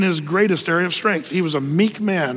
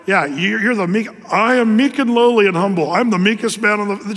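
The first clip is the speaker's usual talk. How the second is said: mock boastful; 3 dB louder than usual. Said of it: "just writing that, it's not meek".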